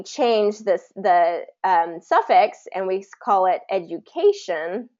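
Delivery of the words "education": "education" with the stress moved to CA; third-syllable stress. Shown as a demonstration. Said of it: "that changes the, the stress".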